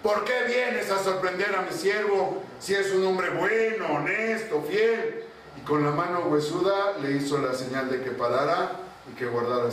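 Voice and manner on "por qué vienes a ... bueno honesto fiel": higher, confronting call; mild rebuke. Acted. Vizier confronting death in the garden, mild rebuke. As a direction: scold death for his servant. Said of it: "le empezó a increpar".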